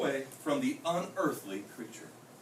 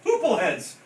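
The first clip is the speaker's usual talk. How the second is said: louder, higher holler; 5 semitones higher, 7 dB louder than usual. A narrator's reading. Scipio hollering at the crazy creatures, loud call. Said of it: "hollered Scipio".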